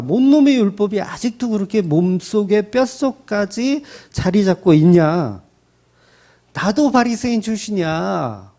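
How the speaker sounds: voicing Paul tearing into Peter, heated dramatic scolding. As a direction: scold him like a fed-up younger colleague, pitch up. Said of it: "작살나게 막 욕을 하는 거예요".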